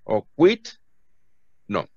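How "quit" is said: "quit" as a mistaken "quiet", one syllable, raised in pitch; wrong pronunciation. Shown as a demonstration. Teacher showing students another wrong way, "quit" for "quiet". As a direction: say "quit" with a short i and questioning rise. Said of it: "Nunca es quiet".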